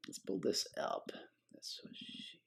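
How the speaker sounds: whispered, barely voiced mutter; hushed aside. Real, not acted. Tutor joking to himself while working, whispered aside. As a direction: slip it in under the breath.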